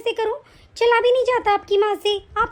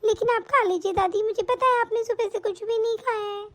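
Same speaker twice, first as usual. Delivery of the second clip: put-on little girl voice; 4 semitones higher than usual. Child reassures grandmother.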